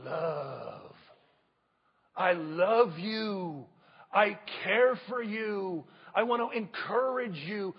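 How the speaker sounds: gentle loving words spoken to the church; tender and sincere. Acted. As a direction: say it like you truly mean it to them. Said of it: "words that came out said out here".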